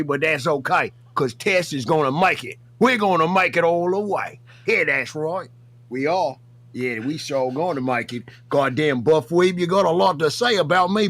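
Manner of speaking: put-on rough Australian accent for the bit; put-on Aussie accent. The speaker calling out Buff Weeb in a put-on Aussie accent. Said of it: "Why are you Australian?".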